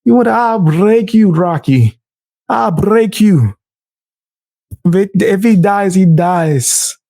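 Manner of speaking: lightly voiced movie boxer impression; a hint of the menacing boxer from Rocky; Drago. Mocking her by quoting a Rocky villain, lightly voiced boxer impression. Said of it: "sounding like my man Drago".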